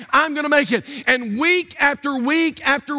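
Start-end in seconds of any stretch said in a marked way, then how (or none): 0.1-0.8 imitating a firmer, more convinced reply; with belief. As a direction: repeat it as if you believe it. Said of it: "Say it like you believe it".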